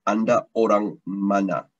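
slow, clear teacher model of the question; slow model phrase. Shown as a demonstration. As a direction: say it slowly so learners can copy. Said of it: "if I say where in Malay is mana".

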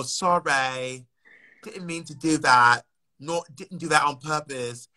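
a light put-on English accent, slow and apologetic. Shown as a demonstration. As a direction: apologise like a polite Brit bumping into someone. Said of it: "I'm gonna do an accent".

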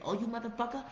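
mock-hostile cussing; mock cursing someone out. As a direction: play the petty trash-talker. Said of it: "That's sending them back to the streets".

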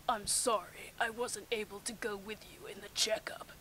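whispered apology. Acted. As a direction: breathe it out as a confession. Kakashi apologizing softly.

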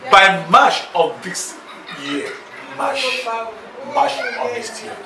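chuckling through the words; laughing promise. Acted. Man promises marriage by March, laughing through it. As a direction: laugh while you promise.

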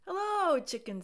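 high, loud hello. A narrator's reading. Duck greeting Chicken, high and loud. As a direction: sing it out.

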